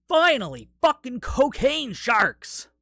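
loud, high triumphant shout; excited cheer. Real, not acted. Film fan celebrates cocaine sharks at last, excited cheer. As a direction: shout it like a long-awaited payoff, stretching the words.

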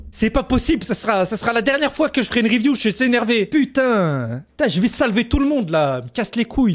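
high-pitched exasperated rant; real annoyance. Real, not acted. Reviewer swearing off reviews of the show, annoyed rant.

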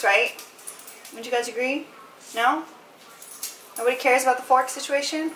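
mock lecture to the dogs; talking to a dog. Real, not acted. Lecturing dogs about forks.

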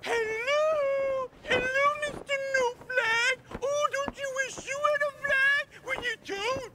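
gloating taunt. Acted. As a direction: crow over him like a kid showing off a toy. Taunting neighbour without flag.

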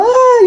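high retold wail of panic; mock cry. Retelling her labour panic.

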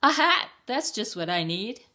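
high, loud delighted cry; excited hen. Acted. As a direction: shout with joy at finding a hat. Hen finds a hat.

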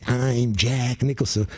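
a light hammed-up Jack Nicholson, slow; lightly voiced hacky Jack Nicholson move; Jack Nicholson impression. Dog puppet doing a hacky Jack Nicholson, lightly voiced. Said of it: "a Jack Nicholson impersonator".

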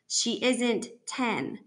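slow, slightly hoarse statement; a touch of hoarseness, words spaced out. Acted. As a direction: say it slowly, throat tight and hoarse. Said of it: "my voice hoarse".

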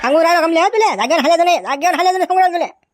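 angry, high-pitched orders; threatening warning. Acted. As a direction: warn her not to budge. Father threatens daughter not to move.

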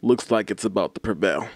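measured, dramatic pauses between phrases; mock-solemn address. YouTuber rallying friends to save PewDiePie, mock-solemn. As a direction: deliver a grave mission speech with mock gravity.

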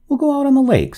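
sudden high-pitched decision; sudden resolve. A narrator's reading. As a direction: announce it as if jumping up. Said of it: "starting up".

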